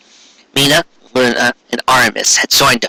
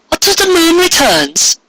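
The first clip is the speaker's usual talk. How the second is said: high, slow questioning cat voice; puzzled cat. Acted. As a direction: ask it as a small bewildered cat. Luna the cat asks.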